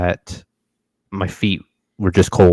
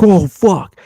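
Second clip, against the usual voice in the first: shocked exclamation; 11 semitones higher, 5 dB louder than usual. Retold or imitated. Blood goes everywhere.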